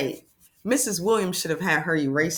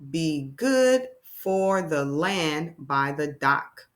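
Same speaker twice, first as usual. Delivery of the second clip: put-on slow, clear reading for young learners; careful classroom read-aloud; 2 semitones lower, much slower than usual. Shown as a demonstration. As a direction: read each phrase slowly and plainly. Reads passage slowly.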